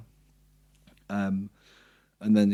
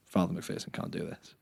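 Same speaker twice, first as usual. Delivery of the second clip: hushed; 7 dB quieter than usual. Retold or imitated. Solemn line in the scene.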